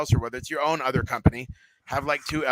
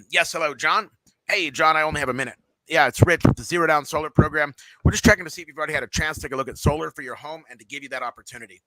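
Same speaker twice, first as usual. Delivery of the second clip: higher, upbeat caller voice; first try at a cheery cold call; enthusiastic pitch; 3 semitones higher, 4 dB louder than usual. Shown as a demonstration. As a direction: sell it with energy. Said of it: "that was horrible what I just did".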